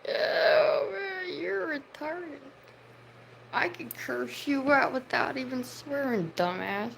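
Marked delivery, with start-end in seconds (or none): 0.1-2.4 high cackling shout into a slow jeer; laughing scorn. Real, not acted. Streamer laughing at a commenter, shouting mockery. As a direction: laugh it out at them, mocking.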